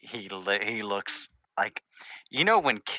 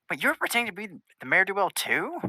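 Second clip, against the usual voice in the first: much higher bubbly pony voice; Pinkie Pie voice; 10 semitones higher than usual. Acted. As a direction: pitch way up, bouncy and quizzical. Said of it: "she runs up and goes".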